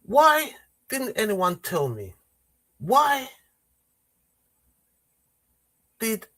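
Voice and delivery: slow, deliberate put-on voice of a female MP, drawn-out pauses; a mock-grave parliamentary speaker, words stretched out; imitating Diane Abbott. Mimicking an MP's slow speech to mock the Prime Minister. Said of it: "I'm gonna do my impression of Diane Abbott".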